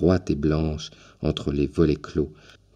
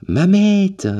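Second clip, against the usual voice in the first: loud, much higher call down the hall; 6 dB louder than usual. A narrator's reading. Old man calling his wife to the back room, loud high call. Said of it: "en appelant".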